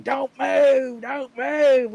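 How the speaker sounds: imitating his captain's yell; mock shouted order. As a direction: bark a mock cop order. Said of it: "my captain's screaming".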